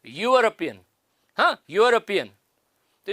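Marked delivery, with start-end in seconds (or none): 0.1-0.8 यूरोपियन alone, opening clearly on य; teacher demonstrating the "y" that begins यूरोपियन; initial "y" sound. Shown as a demonstration. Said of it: "वो है य का". 1.7-2.3 यूरोपियन repeated as a model, starting on य; initial "y" sound. Shown as a demonstration. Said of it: "वो है य का".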